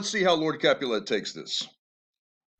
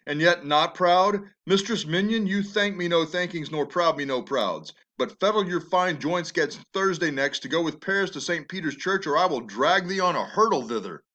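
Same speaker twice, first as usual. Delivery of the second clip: mocking father; 3 semitones higher than usual. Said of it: "he mocks his daughter".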